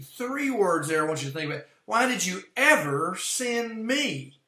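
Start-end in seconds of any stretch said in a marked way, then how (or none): 1.9-4.4 ever lifted high, me pressed; stress on ever and me. Shown as a demonstration. Preacher pointing out Moses' words to his listeners, stressing ever and me. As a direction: hit ever and me in the question. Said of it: "So "ever" and "me".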